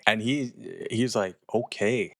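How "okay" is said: mildly giddy okay, a little drawn out. Retold or imitated. Charlie getting his yes from Kathy, giddy. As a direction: imitate someone pleased to get a yes. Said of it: "he's giddy".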